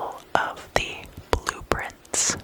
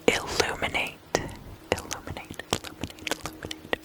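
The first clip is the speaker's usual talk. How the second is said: fading whispered echo; 5 dB quieter, much faster than usual. Acted. Describing the hermit's lantern to listeners, fading whisper. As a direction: whisper dropping sharply into barely audible repeats.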